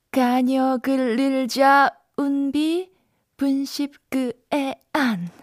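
slow, carefully spelled-out syllables; backwards speech. Shown as a demonstration. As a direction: read the lyrics backwards, word by word. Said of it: "그래서 거꾸로 읽어드립니다".

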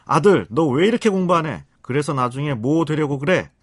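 loud, high-pitched scolding mother; acted harsh parental telling-off; harsh nagging. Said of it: "독한 말투로".

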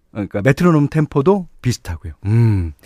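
ordinary talk

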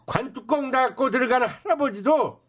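brash hawker's sales pitch; snake oil seller. Acted. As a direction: hype the cure-all to the crowd.

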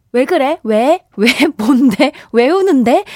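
loud, high, rapid-fire mock concern; hammed-up fussing. Shown as a demonstration. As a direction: make a big fuss over someone crying. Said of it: "호들갑 떨어주는 걸로". (호들갑스럽게 다그쳐 묻기)

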